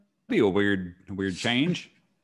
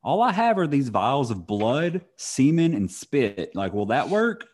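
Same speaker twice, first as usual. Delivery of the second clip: higher, brighter, eager offer; eager mock helper; 4 semitones higher than usual. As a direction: act keen and helpful. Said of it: "And they were like".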